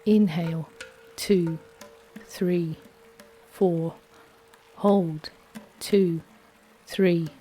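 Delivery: steady, calm counting of breaths; guided breathing count. Acted. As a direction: lead the breath count evenly.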